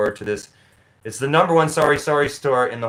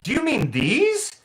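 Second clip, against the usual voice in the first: calling after him; slower than usual. Retold or imitated. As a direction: shout after a customer walking away. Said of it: "she's like".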